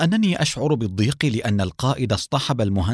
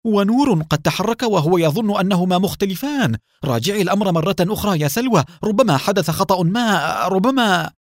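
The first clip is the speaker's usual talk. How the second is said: high, urgent shout; alarmed shout to Salwa; 8 semitones higher than usual. Acted. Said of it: "صاح رمزي".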